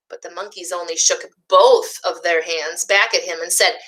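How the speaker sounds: put-on gentle picture-book narration for young listeners; storybook reading. A narrator's reading. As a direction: read it like story time for little ones.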